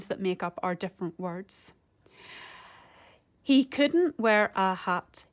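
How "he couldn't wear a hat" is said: slow, separated syllables; measured syllable-counting delivery. Shown as a demonstration. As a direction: count it out slowly, beat by beat.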